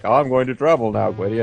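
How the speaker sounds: a breezy mock wizard voice; imitating Manahan. Friend mocks the wizard teleporting away, lightly voiced. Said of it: "He's just like".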